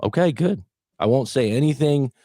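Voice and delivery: upbeat coach encouragement; cheering on. Shown as a demonstration. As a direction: pump them up to keep going. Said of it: "cheer the person on".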